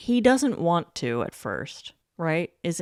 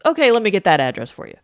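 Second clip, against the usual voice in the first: eager instant cave; 8 dB louder, much faster than usual. Retold or imitated. Eager drunk caving instantly.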